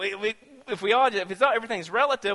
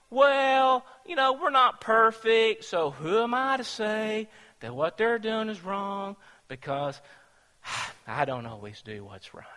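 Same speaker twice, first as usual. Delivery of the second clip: mock excuse; 3 semitones higher than usual. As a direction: lightly mimic a lame excuse, trailing off. Mock excuse-maker voiced in sermon.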